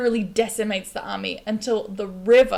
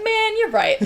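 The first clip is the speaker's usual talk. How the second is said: pumped up; 12 semitones higher, 5 dB louder, slower than usual. Retold or imitated. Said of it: "he's like".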